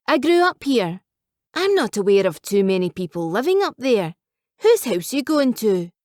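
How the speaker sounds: put-on a light Scottish accent for the old cabbie; Scottish taxi driver. Old Scottish cabbie chats to a newcomer in a light Scottish accent. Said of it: "past the thick Scottish accent".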